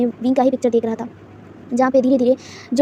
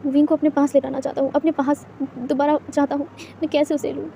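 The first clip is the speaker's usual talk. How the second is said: grieving; 5 dB quieter than usual. Acted. Grieving at grandfather's grave.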